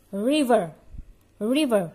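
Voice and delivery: loud model "River" with the R held back; tucked English R. Shown as a demonstration. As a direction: punch out "River" without trilling the R. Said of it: "R-nya kita simpan".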